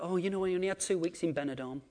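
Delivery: mock petty grumble; mock complaining. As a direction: moan about a trivial holiday. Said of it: "when you're complaining about".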